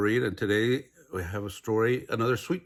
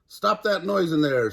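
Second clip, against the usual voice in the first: loud higher angry call; cried out; 7 semitones higher, 6 dB louder than usual. A narrator's reading. Alligator pounding on the door, loud angry call. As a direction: yell through the door. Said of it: "she cried".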